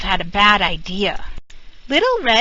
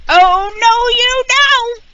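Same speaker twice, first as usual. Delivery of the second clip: much higher, louder stern cry; grandma shouting; 14 semitones higher, 7 dB louder, slower than usual. A narrator's reading. Grandma bursting in to chase the wolf, loud and high. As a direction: stop the wolf cold, full voice. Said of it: "she shouted".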